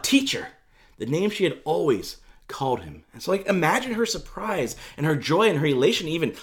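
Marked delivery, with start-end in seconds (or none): 0.0-0.5 high-pitched exclamation; raised, joyful call; crying out. Retold or imitated. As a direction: cry it out high in recognition. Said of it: "she cries out".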